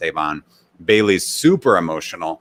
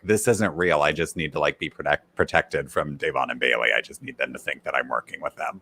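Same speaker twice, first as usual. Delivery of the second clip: Cody scheming quietly; 5 semitones lower, 6 dB quieter than usual. Retold or imitated. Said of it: "Cody was like".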